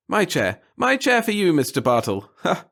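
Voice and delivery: high, loud, excited little man; flustered offer. A narrator's reading. The clerk eagerly offering his own chair to the reporter. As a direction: thrust the chair at him eagerly.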